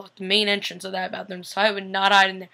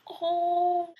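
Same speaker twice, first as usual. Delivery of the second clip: touched sigh; 9 semitones higher, 3 dB quieter than usual. Retold or imitated. Moved by Bonnie and Elena.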